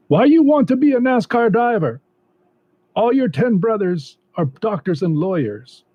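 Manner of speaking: high-pitched mom voice. Retold or imitated. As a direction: play his mom, high and scolding. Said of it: "she doesn't really talk like that, but I can't talk like an old woman".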